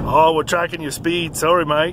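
put-on lightly done Aussie-Kiwi accent; a hint of Australian accent. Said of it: "My Australian and New Zealand accents are both terrible".

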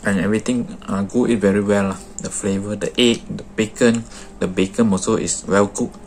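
chewing while talking; talking between bites; mouth full. Real, not acted. Seen 1: Holds sandwich at mouth, bites and chews between words, cheeks full.

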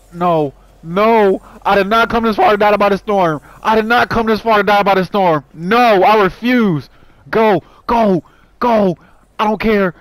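high, loud, insistent hollering; frantic defiant shouts; defiant yelling. Real, not acted. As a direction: yell it in desperate refusal. Refusing to die to the storm.

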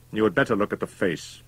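holding something back; constrained. A narrator's reading. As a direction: say it with some constraint. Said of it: "in tones of some constraint".

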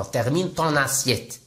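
slow, careful French for learners; slow model phrase. Shown as a demonstration. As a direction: say each word slowly and clearly. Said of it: "لي فرونسي تيقولوا بحال هكا".

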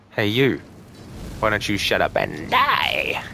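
slow taunt breaking into a yell on "die"; mock combat shout. Gamer taunting an enemy mid-fight, mock shout. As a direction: playfully yell it at a game enemy.

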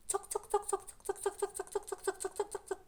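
high quick tsok-tsok chirping; cricket chirping. Shown as a demonstration. Teacher showing children how crickets chirp, high chirping. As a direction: imitate the cricket, high and light. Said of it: "Як вони цюркачать?".

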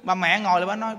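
ordinary talk

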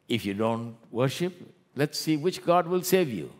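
preacher imitating a king daring the captives; taunting king. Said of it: "they speak like that".

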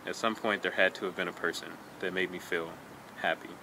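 measured poetry reading, evenly paced with pauses between lines; understated recital, falling away softly at the close; poem reading. Acted. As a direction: read the poem sincerely, letting each line settle. Reads a poem aloud.

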